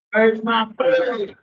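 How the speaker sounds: slow high whine for food; drawn-out whine. Real, not acted. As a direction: stretch it out, pleading.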